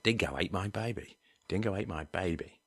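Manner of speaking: rough Australian accent. Shown as a demonstration. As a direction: attempt an Aussie accent, not quite nailed. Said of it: "I'm not that great with an Australian accent".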